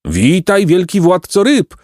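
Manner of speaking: high, mock pelican cry; lightly hammed-up squawking greeting; screeching birds. A narrator's reading. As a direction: hail him in a high bird voice. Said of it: "wrzasnęły ptaki".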